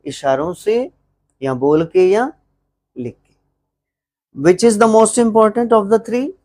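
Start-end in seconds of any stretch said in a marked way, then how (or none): 4.4-6.3 slow, drawn-out classroom question with a rise; slow teacher question. Shown as a demonstration. Teacher to students, slow questioning drawl. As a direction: spell the question out slowly for the class. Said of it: "teacher asks class slowly".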